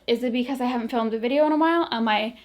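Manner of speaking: breathless, gasping between phrases; out of breath. Real, not acted. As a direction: talk while short of breath. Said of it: "I don't know why I'm so out of breath".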